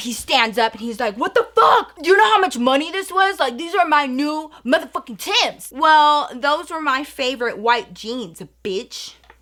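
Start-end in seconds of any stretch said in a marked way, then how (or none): 1.2-5.7 mock fuming man's outraged, angry rant. Retelling how a man reacted to pickle juice on his boots: imitating an angry man. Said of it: "he got so mad".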